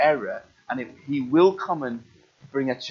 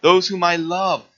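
measured, solemn reading of the passage; scripture reading. Acted. Preacher reading Revelation to the congregation, solemnly. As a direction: read it weighty and steady.

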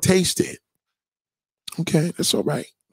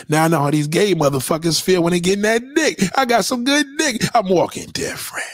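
higher excited brag; excited boasting; 6 semitones higher than usual. Acted. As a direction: crow about it, pitch up. Boasting to friend, pitched up.

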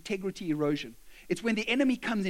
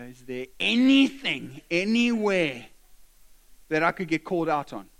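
fearful elders; 3 semitones lower, 6 dB louder than usual. Retold or imitated.

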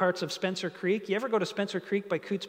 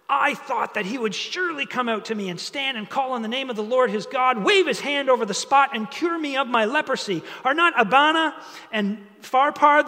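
higher-pitched, mildly indignant outburst; mock mad; 4 semitones higher, 3 dB louder than usual. Naaman protests at being told to wash, acted mild anger. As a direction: read it as an offended protest. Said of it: "Now he's mad".

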